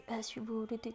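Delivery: retold mock imitation, under the voice; sulky mimicking. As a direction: parrot the words back in a mild huff. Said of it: "غصے میں نا منہ چڑھا کے بولتی".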